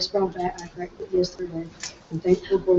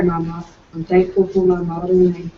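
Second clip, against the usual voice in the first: a bit louder, projecting to the room; louder on request. Shown as a demonstration. Pupil reciting to class, speaking up as told. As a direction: lift the volume as the teacher asked.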